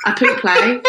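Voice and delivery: pouple said as poo-play, Spanish-style; mock Spanish. Shown as a demonstration. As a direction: say pouple like a fake Spanish word. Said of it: "does not mean apples".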